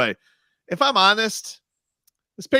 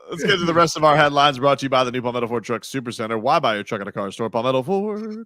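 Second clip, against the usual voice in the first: ad read. Acted.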